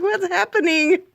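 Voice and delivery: high slow puzzled cat voice. Retold or imitated. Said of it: "She's like".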